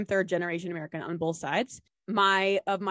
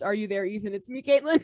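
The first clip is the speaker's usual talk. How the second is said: mock prayer; 3 dB louder, faster than usual. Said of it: "instead of "Are you there, God?".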